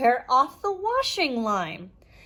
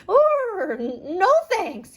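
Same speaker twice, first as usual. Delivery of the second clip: higher, louder scared goat yell; shouting; 9 semitones higher, 4 dB louder, slower than usual. Acted. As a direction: cry out in fright, stammering. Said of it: "he shouted".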